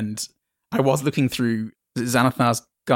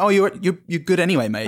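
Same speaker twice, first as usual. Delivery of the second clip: casual bloke; 8 semitones higher, 3 dB louder, faster than usual. Retold or imitated. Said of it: "I was like".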